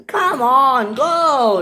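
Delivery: high, loud impatient urging; annoyed. Acted. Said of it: "The passengers were very annoyed".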